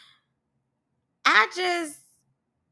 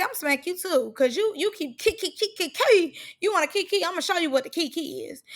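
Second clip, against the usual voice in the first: mocking threat; 4 semitones higher than usual. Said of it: "I would say".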